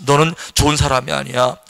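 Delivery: accusing voice. Retold or imitated. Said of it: "이렇게 비난할 수 있어".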